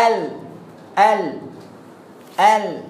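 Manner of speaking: plain everyday "ال" as we say it; teacher demonstrating common pronunciation; our everyday lam. Shown as a demonstration. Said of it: "عايز أقول لك على النطق بتاعنا".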